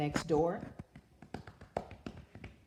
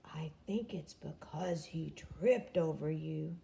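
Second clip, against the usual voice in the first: hushed aside to Snake; whisper; 2 semitones lower, 4 dB quieter than usual. A narrator's reading. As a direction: whisper it behind Jim's back. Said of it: "Norman whispered to Snake".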